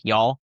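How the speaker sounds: "Y'all." as one Texan syllable. Shown as a demonstration. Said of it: "You'll hear me say, say stuff like".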